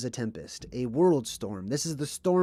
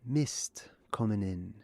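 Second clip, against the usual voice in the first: Cockney Bert voice; slower than usual. Retold or imitated. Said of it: "He says".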